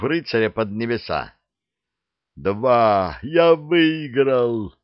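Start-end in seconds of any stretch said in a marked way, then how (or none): 2.4-4.7 yelling. A narrator's reading. Chmok yells that he won the bet. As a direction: yell out the win. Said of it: "заорал Чмок".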